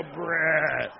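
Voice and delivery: a hint of a slow, spooky name call; lightly voiced creepy apparition; eerie Jesus voice. Son tells mom how scary Jesus will call him. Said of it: "the opium Jesus is gonna come and go".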